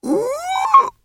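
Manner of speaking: high ape hoot, shouted; a high excited orangutan cry. A narrator's reading. Librarian orangutan hoots.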